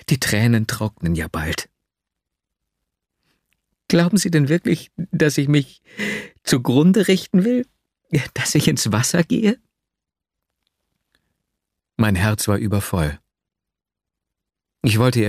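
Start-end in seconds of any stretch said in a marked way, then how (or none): 3.9-9.6 put-on higher young woman, bitterly reproachful; a girl scoffing at his fear for her; Nastjenka's voice. A narrator's reading. Nastjenka asking if he thinks she'll drown herself, higher and bitter.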